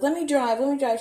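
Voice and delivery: high, eager mock begging; acted-out insistent request; re-enacted pleading. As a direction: plead it high and excited, twice over. Acting out her own eager pleading.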